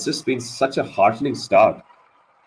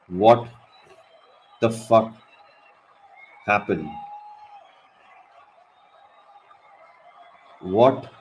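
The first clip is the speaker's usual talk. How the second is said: disbelieving laugh; 4 dB quieter than usual. Real, not acted. Wicket falls, stunned disbelief.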